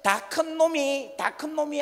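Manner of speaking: high, loud furious scolding; scolding parent. Retold or imitated. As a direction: yell at the child who wet himself. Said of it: "그러면".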